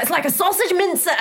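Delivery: high, laughing imitation of a panicked man; quoting a panicked crewmate through laughter; laughing mock panic. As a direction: squeal it through laughter, mocking his panic. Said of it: "When he was like".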